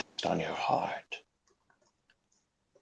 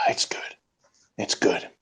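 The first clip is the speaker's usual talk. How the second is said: hushed awe; 7 dB quieter than usual. Pretend. Overcome, answering brother's question.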